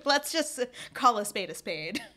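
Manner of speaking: folksy southern twang; southern accent. Pretend. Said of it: "Where'd that southern accent come from?".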